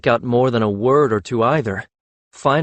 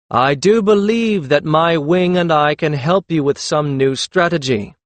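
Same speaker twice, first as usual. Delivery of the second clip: higher, louder, slow, each word carefully spelled out; careful enunciation; 6 semitones higher, 5 dB louder than usual. A narrator's reading. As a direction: lay weight on every word so they catch the hidden meaning. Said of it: "enunciating each word with such care".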